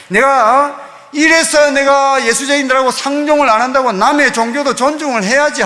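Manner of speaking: mild mock yell of outrage; retold angry shout. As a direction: imitate an irate man telling someone off. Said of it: "버럭 소리를 지르면서".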